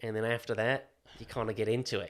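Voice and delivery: putting on an Australian accent. Shown as a demonstration. Showing co-host the trigger word, Australian accent. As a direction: slip into Australian on the word "water". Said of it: "get into the Australian is water".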